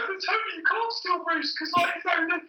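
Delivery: high, thin mock-whine of a nervous junior; whiny pleading voice. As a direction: play a squeaky naive junior pleading with the boss. Mocking their younger selves pleading.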